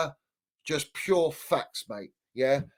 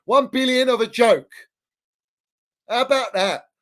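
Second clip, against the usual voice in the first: indignant outburst; 6 semitones higher, 6 dB louder than usual. Real, not acted. Mocking club owners' spending.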